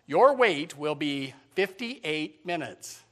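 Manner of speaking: slow automated message voice; recorded phone message. Retold or imitated. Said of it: "they said".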